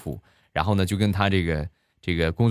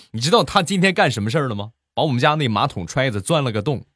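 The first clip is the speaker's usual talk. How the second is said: worked-up, faster complaining neighbour; agitated; 3 semitones higher than usual. Retold or imitated. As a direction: rant in a fluster about the kid. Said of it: "情绪非常激动". (激动地抱怨，语速加快)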